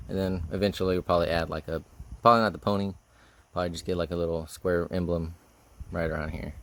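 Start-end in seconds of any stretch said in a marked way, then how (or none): 3.5-6.5 winded, short of breath; breathing hard between words. Real, not acted. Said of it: "Sorry, I'm out of breath right now".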